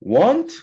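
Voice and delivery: "want" said with a falling pitch; "want" starting high and falling; falling tune. Shown as a demonstration. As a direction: let "want" drop down like a curve. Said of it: "항상 떨어지듯이".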